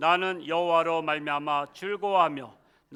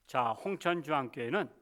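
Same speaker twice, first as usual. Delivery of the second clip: ordinary talk, nothing marked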